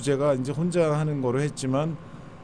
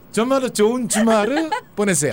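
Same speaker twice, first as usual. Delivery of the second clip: Japanese accent Korean; 8 semitones higher, 5 dB louder than usual. Shown as a demonstration. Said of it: "일본 말로 해봐요".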